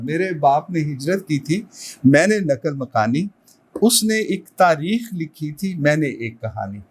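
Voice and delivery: measured couplet recital, lifted then falling to close; poetry recitation. Acted. Host quoting the guest poet's couplet to introduce him, poetry recitation. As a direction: recite the verse with rising, suspended line ends, then resolve.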